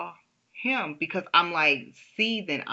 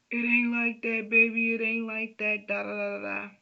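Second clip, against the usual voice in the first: pleading husband; 6 semitones higher than usual. Retold or imitated. Husband denies, voiced by wife.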